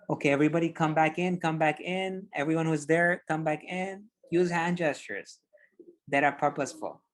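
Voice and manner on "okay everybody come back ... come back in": inviting presenter. Shown as a demonstration. Coach demos pulling a virtual audience back in. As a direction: call everyone back in warmly. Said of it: "bring the audience in".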